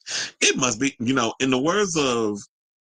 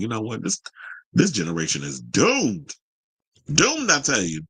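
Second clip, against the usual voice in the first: Ralph impression. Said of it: "I'm trying to do Ralph from".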